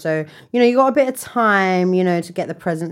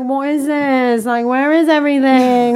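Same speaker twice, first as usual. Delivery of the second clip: high, fast outraged retelling; shocked disbelief; 6 semitones higher, 4 dB louder than usual. Retold or imitated. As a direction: act out walking in stunned. Retold shock in store.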